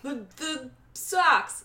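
slow, stretched Boston accent on "socks"; drawn-out put-on Boston accent. Shown as a demonstration. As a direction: try an accent and land on Boston, drawing out "socks". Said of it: "No, that's Boston".

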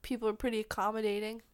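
talking around a pen; words squeezed past a pen in the mouth; pen in teeth. Real, not acted. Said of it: "I could put this pen in my mouth".

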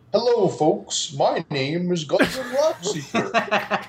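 cheesy, slow theme park greeter; theme park character voice. Acted. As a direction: greet guests like a corny mascot. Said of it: "You sound like a terrible theme park character".

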